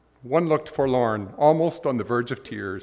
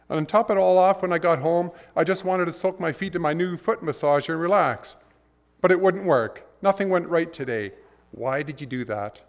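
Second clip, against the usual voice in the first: exasperated man; 5 semitones higher than usual. Retold or imitated. Man ranting to God about his day. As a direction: vent the whole rotten day.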